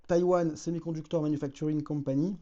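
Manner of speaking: the company name in careful English, with a French speaker's English accent. Real, not acted. Naming the chip maker for viewers, in an earnest English accent. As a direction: switch to your best English accent for the full name. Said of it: "excusez-moi pour mon accent anglais".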